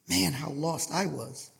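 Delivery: low, soft, reflective aside; softly, almost to himself; hushed reflection. Real, not acted. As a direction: drop low and quiet, looking back. Preacher recalls his own lost past.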